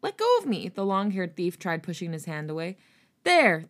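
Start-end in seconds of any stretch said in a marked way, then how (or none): 0.0-0.7 panicked. Acted. Thief struggling to escape. 3.2-3.6 calling out. Acted. Pursuers spot them.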